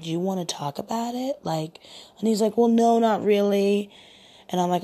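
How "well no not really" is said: higher, louder mopey imitation; mock moaning. Woman mimicking her date declining to talk, mock moaning. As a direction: imitate a man close to tears. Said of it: "he was crying and he was moaning".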